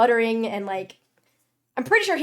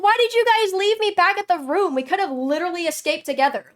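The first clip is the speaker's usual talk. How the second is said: high, louder mock outrage; imitating her own indignant question; retold complaint; 8 semitones higher, 6 dB louder than usual. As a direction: whine it like you were left behind. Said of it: "I was like".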